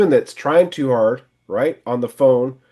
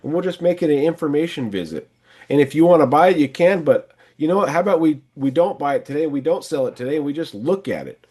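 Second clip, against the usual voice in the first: upbeat friendly pitch; 3 semitones higher, faster than usual. Shown as a demonstration. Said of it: "So stuff like".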